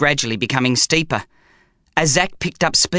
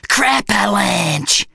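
slow dread; 5 semitones higher, much slower than usual. A narrator's reading. Bum repeating.

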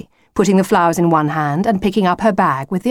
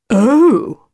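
high, louder puzzled "oh"; confused; 7 semitones higher, 6 dB louder than usual. A narrator's reading. Wolf hearing what a granddad is, confused. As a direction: let it swoop, taken aback. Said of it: "looking confused".

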